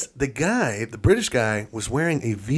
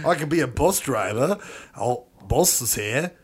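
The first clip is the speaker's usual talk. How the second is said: put-on Australian accent. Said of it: "you bring in Itali-, or, uh, Italian, Australian".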